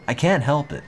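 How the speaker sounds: hammed-up protest; mock protest. Real, not acted. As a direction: plead that you can't help it. Defending own voice.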